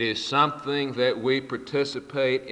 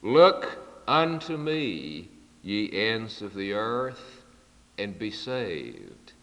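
squeaky voice; 3 semitones lower, slower than usual. Retold or imitated. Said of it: "in a squeaky voice he began to read".

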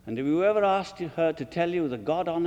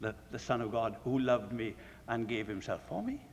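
soft quote; 6 semitones lower, 7 dB quieter than usual. Shown as a demonstration. Quoting Paul's overflowing aside.

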